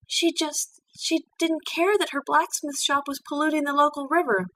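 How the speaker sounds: indignant pupil venting to her mentor; Twilight's voice, upset. Acted. Twilight complains about petitioner.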